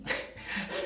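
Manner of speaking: brief, breathy little laugh; soft chuckle. Real, not acted. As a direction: chuckle quietly at your own fright. Amused retelling of own fright.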